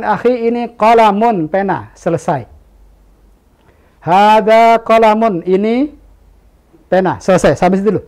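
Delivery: a teacher keeping it simple; simple teaching demo. Shown as a demonstration. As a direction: spell it out gently and stop there. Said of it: "Ketika kita ajarkan".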